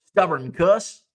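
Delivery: light mock Southern twang; Southern accent. Showing any word sounds Southern, put-on Southern accent. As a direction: say it as a playful Southern insult. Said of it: "If you use a Southern accent".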